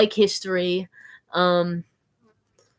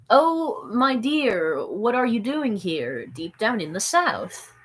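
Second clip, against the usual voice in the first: green guy voice; 3 semitones higher, slower than usual. Acted. Voicing the green guy drawing.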